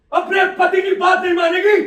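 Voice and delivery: shouted, menacing question; husband threatening his wife; angry threat. Acted. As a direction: bark it at her.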